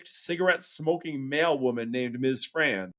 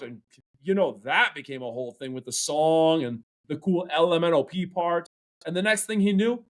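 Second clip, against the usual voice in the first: lively stand-up storytelling; comedian storytelling; 4 semitones higher than usual. Acted. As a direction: tell it like a comic on stage.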